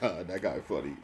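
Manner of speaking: offhand nod to someone being funny; dry acknowledgment. Shown as a demonstration. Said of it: "but I'm like".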